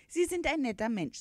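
high-pitched, moved horse voice; touched. A narrator's reading. Horse thanking the sympathetic uncle, touched. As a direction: let gratitude lift the voice. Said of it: "sagte das Pferd gerührt".

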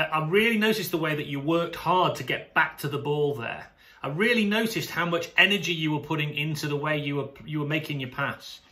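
calm, sincere noticing; affirming coach. Shown as a demonstration. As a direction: tell the player what you saw. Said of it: "What you've gotta say is this".

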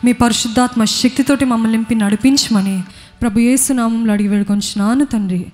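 earnest spoken prayer to God; preacher leading the church in closing prayer, earnest. Acted.

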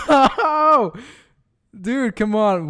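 high loud no; anguished shout. Real, not acted. Gamer losing his fight, howling loud and high. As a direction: howl it at the monitor.

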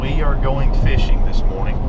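deliberate, enunciated proper English accent; country speaker attempting a proper English accent; perfect English accent. Shown as a demonstration. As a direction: carefully sound every word in standard English accent. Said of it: "trying to do my perfect English accent".

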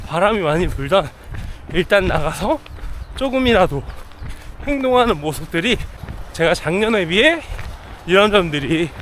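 talking while jogging; breathy voice mid-run; while running. Real, not acted. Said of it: "데일러닝을 나왔습니다". (달리면서 말하기)

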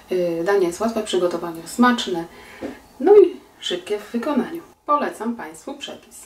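usual speaking voice

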